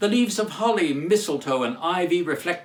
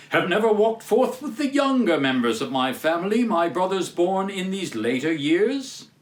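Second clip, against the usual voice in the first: raised, booming spirit voice; hearty ghost; 4 semitones higher than usual. Acted. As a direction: question him like a grand spirit. The phantom questions Scrooge.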